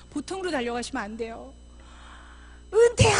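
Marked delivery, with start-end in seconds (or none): 2.7-3.2 loud, high shout of a name; calling out. Acted. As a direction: holler as if running after someone. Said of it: "하고 이렇게 달려가 주셔야 돼요".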